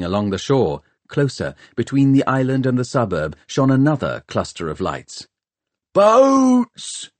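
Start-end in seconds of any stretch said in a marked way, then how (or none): 5.9-7.1 very high, loud, drawn-out cry; long shouted call from the gunner; shouted alarm. A narrator's reading. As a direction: yell it as a lookout's warning. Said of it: "shouted Mungo".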